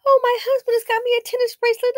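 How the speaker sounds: high, fast prissy voice; mock boastful wife. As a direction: impersonate a bragging wife. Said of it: "think about jewelry".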